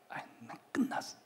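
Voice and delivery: unvoiced, hushed sigh of defeat; whispered despair. Someone after a fatal mistake whispering in despair. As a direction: breathe it out, crushed.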